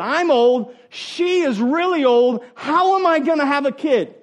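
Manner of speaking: emphatic mock protest; Zechariah's protest, stressed. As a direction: lean on "really old" with mock outrage. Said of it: "He said".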